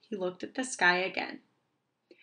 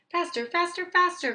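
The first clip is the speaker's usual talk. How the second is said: high, urgent cry that gets louder; 10 semitones higher, 6 dB louder than usual. A narrator's reading. Owl urges himself to run faster, crying out. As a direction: urge yourself on, louder each time. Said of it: "cried Owl".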